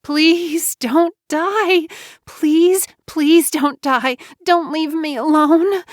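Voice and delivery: high, desperate begging; anguished high-pitched plea; crying out. A narrator's reading. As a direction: beg through grief, drawing the words out. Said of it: "JoBeth cried, hugging his limp body".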